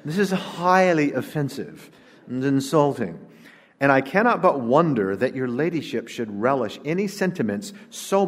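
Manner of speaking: haughty British duchess reading her reply; British accent. Acted. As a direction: put on an offended upper-class British accent. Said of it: "I should do this in a British accent".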